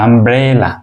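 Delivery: আমব্রেলা said slowly, each sound clear; slow down and lay out আমব্রেলা for the class; slow, clear model word. Shown as a demonstration. Teacher slowly modelling আমব্রেলা for students. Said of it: "এই শব্দটার সাথে পরিচিত".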